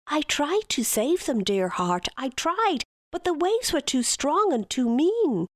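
high-pitched pleading stepmother; pleading false innocence. Acted. Aoife lying to King Lear, high pleading voice.

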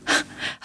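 short breathy huff of a laugh; a small, soft laugh at yourself; self-mocking laugh. A narrator's reading. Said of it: "I laugh at myself".

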